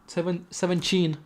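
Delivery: slipping into a Brazilian-sounding "seventeen"; accidental Brazilian accent. Real, not acted. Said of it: "I speak like I'm Brazilian".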